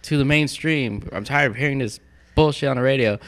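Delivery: high, pleading retold wish, slowing down; mock plea. Man tells friends of bargaining with the devil, mock plea.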